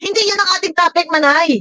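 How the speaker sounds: high-pitched, fast indignant rebuttal. Real, not acted. Reactor answering Manay's clip about the barangay, indignant. Arguing back at woman's played clip.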